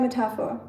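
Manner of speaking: Metapher as meh-TAFF-ah; German Metapher, stress on the middle syllable; German pronunciation. Shown as a demonstration. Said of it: "Metapher in German".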